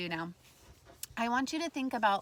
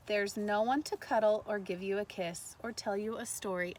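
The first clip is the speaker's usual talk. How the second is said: story reading. Acted. Teacher reading the sad island page, gentle read-aloud. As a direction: ease into the lonely part.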